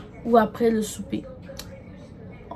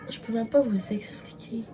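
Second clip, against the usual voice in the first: awed whisper; 5 dB quieter than usual. Real, not acted. Starstruck about meeting Lewis.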